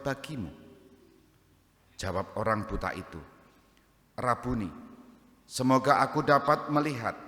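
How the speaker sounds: measured, formal scripture reading; Gospel reading. A narrator's reading. Priest reading the healing of the blind man to the congregation, solemn proclamation. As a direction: read it out clearly to the congregation.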